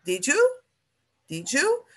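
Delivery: "Did you" run together as one word, didju; linked "Did you" said quickly; did you joined. Shown as a demonstration. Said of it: "é sempre muito junto".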